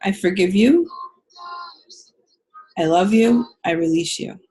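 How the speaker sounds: tender forgiving affirmation; gentle affirmation. Shown as a demonstration. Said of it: "And you could say".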